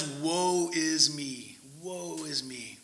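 very slow, fading lament; woe is me. Acted. Isaiah before God's throne, a slow fading lament. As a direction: draw out the woe until it dies away. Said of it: "rightly freaks out".

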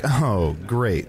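dry sarcastic approval. Shown as a demonstration. Co-host showing the host how to react, sarcastic. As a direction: show a sarcastic response. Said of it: "sarcastic way".

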